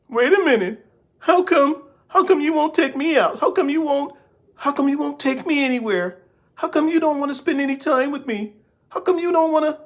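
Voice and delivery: high, pleading whine of a needy woman; begging woman. Retold or imitated. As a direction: beg him, pitch way up and keep pleading. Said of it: "A woman who's like".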